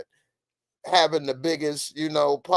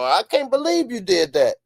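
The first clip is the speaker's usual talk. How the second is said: high-pitched disbelieving holler; mock outrage pitched way up; yelling at the screen; 8 semitones higher, 3 dB louder than usual. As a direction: play-act an outraged viewer. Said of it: "yell at the screen like".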